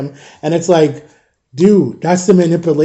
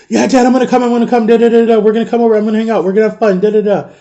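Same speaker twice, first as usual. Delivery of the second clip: higher-pitched mock promises, run together; imitating eager son; 5 semitones higher, faster than usual. Dad mimicking his son promising to visit, mock-eager. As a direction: rattle off a kid's eager promises in a raised voice.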